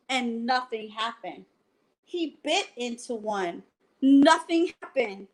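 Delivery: reading a bedtime picture book aloud; lively read-aloud to children; story narration. A narrator's reading. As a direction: tell it like a bedtime story for kids.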